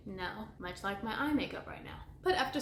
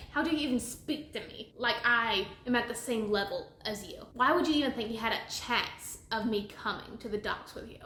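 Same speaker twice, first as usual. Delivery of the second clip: mock haughty put-down; lightly acted disdainful rant; scornful telling-off. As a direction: tear into them like a spoiled brat, half in jest. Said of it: "she just tears him a new one".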